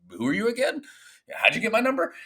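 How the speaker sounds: high, imitating baffled people who don't remember him; mock puzzled contacts. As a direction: play the confused investors he called back. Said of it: "they're all going".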